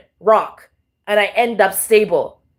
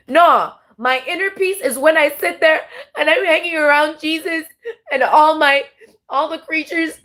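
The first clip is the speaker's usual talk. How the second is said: higher, tearful voice breaking while speaking of God; overwhelmed and moved, words pushed through tears; crying; 4 semitones higher than usual. Real, not acted. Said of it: "that's why I'm crying".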